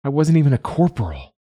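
high-pitched, exasperated groan; groaning complaint. A narrator's reading. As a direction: protest it in a high wail of self-pity. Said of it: "she groans".

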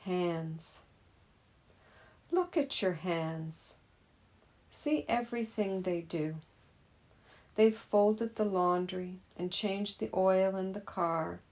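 measured poem reading with pauses between lines. Acted. Teacher reading a poem about hands to meditators, measured recital. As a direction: read the poem out to meditators, line by line. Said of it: "as I read the poem".

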